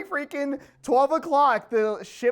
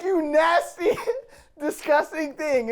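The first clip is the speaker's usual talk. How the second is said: sergeant's insult, higher pitched and broken by laughter; laughing mock yell; 4 semitones higher than usual. Retelling the sergeant scolding the recruit, laughing. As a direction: try to yell it but keep cracking up.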